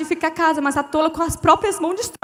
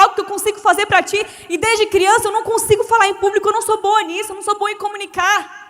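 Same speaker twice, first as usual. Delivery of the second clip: earnest prayer; 4 semitones higher, 4 dB louder than usual. Retold or imitated.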